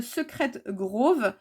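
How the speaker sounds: French speaker's slow go at English; attempted English accent. Real, not acted. Naming a cross-stitch design for viewers, attempted English accent. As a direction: say it slowly in a homemade English accent. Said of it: "avec mon superbe accent English".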